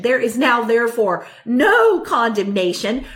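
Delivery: emphatic restatement, "no" held and hit; stress on NO. Real, not acted. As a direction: lean hard and long on the word "no". Repeats verse to drive it home.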